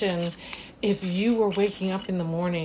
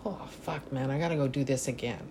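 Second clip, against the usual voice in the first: low, much softer groan of a workday morning; groggy dread; 5 semitones lower, 5 dB quieter than usual. Retold or imitated. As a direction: mumble it like you just woke up dreading work.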